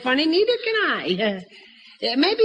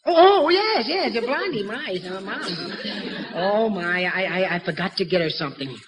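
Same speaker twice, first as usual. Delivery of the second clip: flustered panic; 5 semitones lower, 3 dB quieter than usual. Acted. Father caught forgetting the gift.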